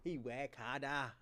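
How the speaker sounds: lightly mocking African accent, slowed down; mimicked African accent. Amused caller repeats the host's line, mimicked African accent. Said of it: "does that African accent".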